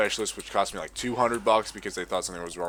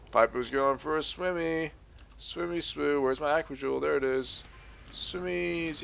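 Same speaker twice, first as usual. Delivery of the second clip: cutesy character voice; 6 semitones higher than usual. Acted. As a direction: voice the little game character pleading sweetly. Baby voice for game character.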